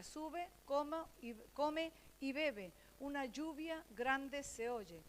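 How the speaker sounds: slow emphatic reading. Shown as a demonstration. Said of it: "estas palabras tienen importancia".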